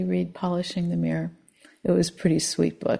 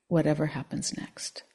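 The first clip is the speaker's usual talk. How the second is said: softer, whispered close; hushed; 2 semitones lower, 7 dB quieter than usual. Shown as a demonstration. Teacher reading the question to students. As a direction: let it drop to a whisper. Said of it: "Can you strengthen your ability".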